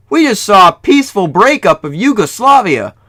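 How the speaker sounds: high, loud astonishment; amazed disbelief. Real, not acted. Amazed at rare game event.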